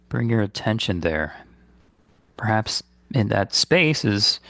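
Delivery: calm, unhurried guidance with long pauses; guided meditation. Real, not acted. Meditation teacher guiding listeners to release guilt, calm and unhurried. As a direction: lead listeners gently inward, leaving space between phrases.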